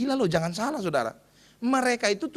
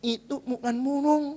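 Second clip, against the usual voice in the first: patient correction; 4 semitones higher, slower than usual. Acted. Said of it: "dia bilang".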